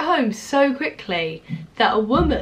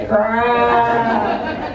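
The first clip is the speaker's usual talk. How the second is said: mock bro talk; 3 semitones lower than usual. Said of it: "just trying to speak your language".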